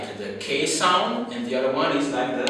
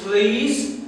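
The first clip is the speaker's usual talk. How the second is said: slow example read; 3 semitones higher, much slower than usual. Shown as a demonstration. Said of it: "the first one is".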